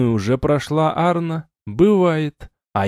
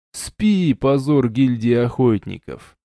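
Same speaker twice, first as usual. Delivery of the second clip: usual speaking voice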